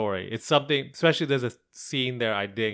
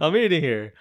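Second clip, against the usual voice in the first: louder New York guy voice; New York accent; 4 semitones higher, 5 dB louder than usual. Pretend. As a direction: give it a New York attitude, loud. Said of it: "I'm trying to do a New York voice".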